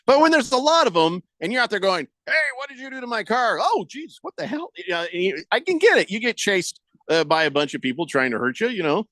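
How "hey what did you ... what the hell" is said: high, fast panicked cries; flustered shouts at the bikers; panicked yelling. Retold or imitated. Panicked biker victim voiced.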